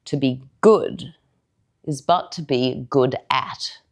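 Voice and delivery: measured, deliberate delivery with weighty pauses; dramatic verse monologue. Acted. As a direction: perform it as a character's soliloquy, lingering on key words. Performs own character monologue in verse.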